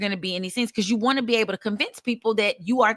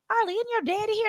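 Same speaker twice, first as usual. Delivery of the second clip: put-on quoting a girl; 12 semitones higher than usual. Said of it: "she goes".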